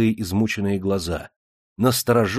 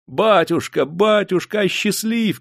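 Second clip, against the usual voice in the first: высоко и громко, с мольбой; выкрикивают, заискивая; крик нищих; 10 semitones higher, slower than usual. A narrator's reading. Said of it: "кричали нищеброды". (нищеброды громко кричат благодетелю)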